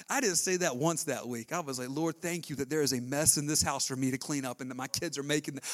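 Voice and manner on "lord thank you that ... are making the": crying prayer. Real, not acted. Grateful mom thanking God, crying. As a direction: voice breaking into tears.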